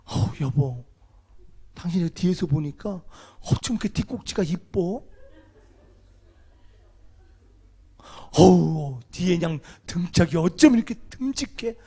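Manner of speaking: gushing wife. Pretend. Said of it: "칭찬해 줘봐요".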